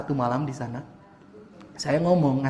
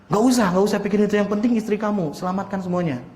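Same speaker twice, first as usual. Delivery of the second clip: insistent mother; 4 semitones higher than usual. Retold or imitated. Mother's urgent reassurance, acted.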